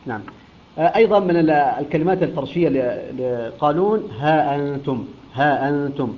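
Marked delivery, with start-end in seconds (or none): 4.2-6.1 ها أنتم with long aa, then an eased glottal stop; softened hamza after alif. Shown as a demonstration. Teacher showing Qalun's reading, ها أنتم with eased hamza. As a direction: draw out ها, glide lightly into أنتم. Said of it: "بإثبات ألف بعد الهاء".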